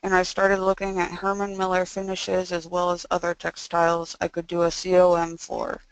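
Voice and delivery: stiff jaw, mouth barely opening; speaking after jaw surgery. Real, not acted. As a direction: talk with stuff still in the mouth. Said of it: "so that's why I sound this way".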